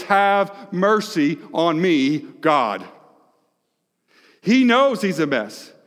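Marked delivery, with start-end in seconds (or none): 0.0-2.8 pleading cry. Retold or imitated. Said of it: "David's cry is".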